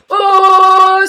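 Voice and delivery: long loud high "ohh" as a failed siren; mock siren. Streamer hyping up arriving viewers, mock siren. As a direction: wail out a poor imitation of a siren. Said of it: "That was supposed to be a siren".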